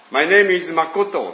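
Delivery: a mock English introduction; English self-introduction. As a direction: introduce yourself in English, word by word. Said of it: "って言ってですね".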